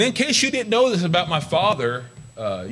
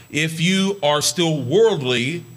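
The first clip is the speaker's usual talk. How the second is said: scripture reading; much slower than usual. Acted. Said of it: "It says in First Corinthians".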